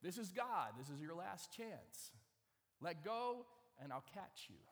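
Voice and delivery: lightly voiced voice from heaven; firm, measured, opening loud; James Earl Jones. God giving a last chance, firm and commanding. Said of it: "sounds just like James Earl Jones".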